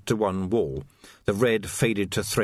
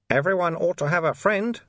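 higher, amused stranger; sly, amused older man; dry knowing voice; 7 semitones higher than usual. A narrator's reading. Mysterious voice.

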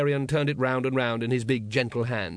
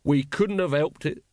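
sulky; 3 semitones higher than usual. Acted. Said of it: "said Nobby sulkily".

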